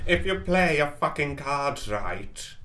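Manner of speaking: spooky ghost voice. Acted. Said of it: "Why are you doing this voice".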